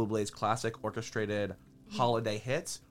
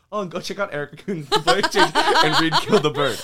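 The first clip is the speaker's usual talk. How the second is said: laughing; 5 semitones higher, 10 dB louder than usual. Retold or imitated. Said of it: "I just say".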